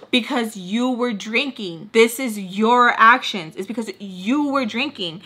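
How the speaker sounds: slow, pointed and blaming; angry. Retold or imitated. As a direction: spell out his fault slowly. Blaming him.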